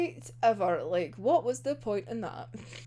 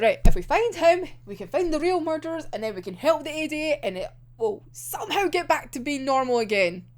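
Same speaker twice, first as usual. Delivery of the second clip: hopeful plan; 4 semitones higher than usual. Retold or imitated. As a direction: talk like it'll all be fixed soon. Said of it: "And it's like".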